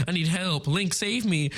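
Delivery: hammed-up helpless pleading, about to laugh; mock plea. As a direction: playfully beg a hero to rescue you. Retold plea while stuck in game.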